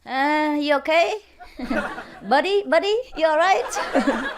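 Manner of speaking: put-on high, laughing drunk buddy voice; mock tipsy soldier calling his pal. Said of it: "So he say".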